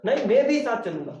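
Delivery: "भी" पर ज़ोर, ज़िद भरा ऊँचा स्वर; बच्चे की तरह अड़कर बोलो; insistent child. Retold or imitated. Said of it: "बच्चे कहते हैं ना". (ज़िद करता बच्चा, "भी" पर बल)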